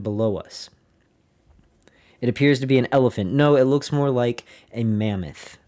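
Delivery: measured, documentary reading voice; diary reading. Acted. Podcaster reads an admiral's diary to listeners, in a steady narrating voice. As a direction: read the flight log like a narrator.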